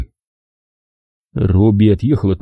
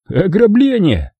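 matter-of-fact announcement; 10 semitones higher, slower than usual. Acted. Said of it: "проинформировал его Робби".

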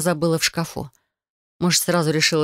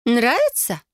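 higher, pleased little question; proudly showing off the knife; joyful question; 7 semitones higher, slower than usual. Acted. Cousin showing Adel the dagger, joyful. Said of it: "радостно спросила Фелиция".

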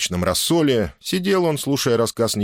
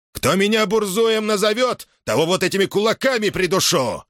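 fists raised, warn them all; threatening; 12 semitones higher than usual. A narrator's reading. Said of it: "пригрозил".

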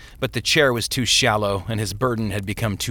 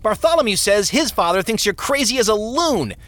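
put-on high-pitched eldest boy piping up; piping child; 10 semitones higher than usual. A narrator's reading. Eldest son tells on his crazy-seeming father, piping up. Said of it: "piped up".

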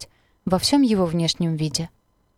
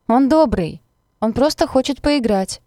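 higher, louder calling out; shouted reassurance; 6 semitones higher, 5 dB louder than usual. A narrator's reading. The girl calls out to the stranger that the dog only wants to play. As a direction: call across to calm him down. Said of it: "крикнула я".

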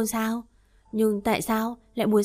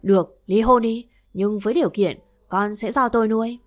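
raised, heated voice in a fight; wife snapping back louder during the divorce fight; angry quarrel; 5 dB louder than usual. Acted. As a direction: fire back at the husband, louder.

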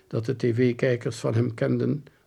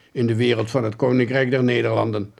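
dry; 4 dB louder than usual. Acted. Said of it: "antwoordde de rechercheur droog".

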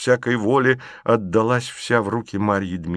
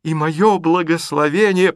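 high, loud solemn flourish; grand blessing; 8 semitones higher, 5 dB louder than usual. Acted. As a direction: bestow it theatrically. (торжественно, громко)

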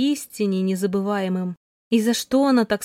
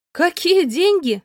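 higher, louder, slow cry of disbelief; shocked outcry; 7 semitones higher, 4 dB louder, slower than usual. A narrator's reading. Alina to the doctor, stunned by news of paid money, crying out. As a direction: blurt it out as you jump up. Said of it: "выкрикнула я".

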